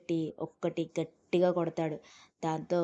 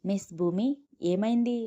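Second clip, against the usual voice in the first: higher, louder anxious call; calling out to her in alarm; worried man calls out, pitch jumping up; 4 semitones higher, 5 dB louder than usual. Acted. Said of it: "కంగారు పడిపోతూనే".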